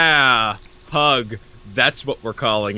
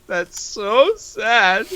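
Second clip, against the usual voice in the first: mock pity; 10 semitones higher, much slower than usual.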